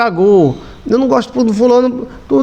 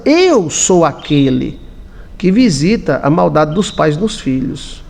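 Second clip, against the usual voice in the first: lento e solene, repetindo a citação; voz de Deus; 5 semitones lower, slower than usual. Retold or imitated. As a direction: declare devagar como Deus. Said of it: "Ele tá dizendo". (voz de Deus, grave e lenta)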